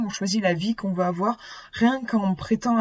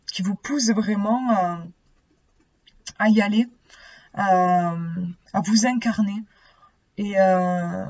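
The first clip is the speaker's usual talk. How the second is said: lisping, s comes out as sh; slushy sh for s. Real, not acted. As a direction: talk with a slight lisp. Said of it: "j'ai un cheveu sur la langue".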